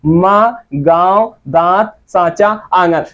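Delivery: माँ, गांव, दांत, सांचा, आंगन said with the vowel nasalised through nose and mouth, candrabindu sound; nasal vowel demo. Shown as a demonstration. Teacher showing students candrabindu nasal vowels in माँ, गांव, दांत, nasalised demo. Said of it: "अच्छे से उच्चरित होता है".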